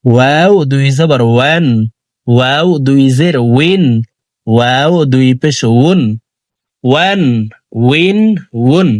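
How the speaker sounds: ওয়ান, উইন, উন with a w from rounded, parted lips; careful demo of ওয়ান, উইন, উন with rounded w; rounded Waw. Shown as a demonstration. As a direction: round both lips for every ওয়াও, leaving a gap. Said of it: "দুই ঠোঁট গোল করে".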